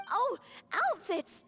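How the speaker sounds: slow, rising gasp of remembering; sudden realisation. Acted. Navia suddenly remembering her errand, surprised. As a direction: it just hit her.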